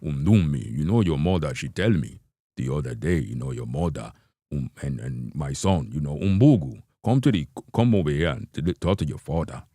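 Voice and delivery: lightly put-on Nigerian father voice; a hint of a Nigerian dad lecturing; mild Nigerian accent, father scolding. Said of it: "a guy come in be like".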